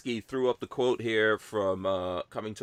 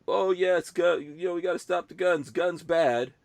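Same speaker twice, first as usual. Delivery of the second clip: mock gun critic; 7 semitones higher than usual. Mocking gun control advocates.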